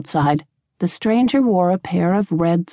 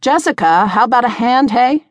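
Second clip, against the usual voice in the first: higher-pitched call to get attention; calling for help; 6 semitones higher, 4 dB louder than usual. A narrator's reading. Tavern keeper to her helper, calling for a hand. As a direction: call over to a dazed helper. Boss calls to distracted helper.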